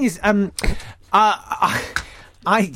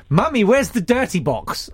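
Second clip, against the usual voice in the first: lightly voiced child calling for mum; higher, hint of a little kid's question; imagined child asking; 6 semitones higher than usual. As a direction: put on a slight child's voice. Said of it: "do they kinda go".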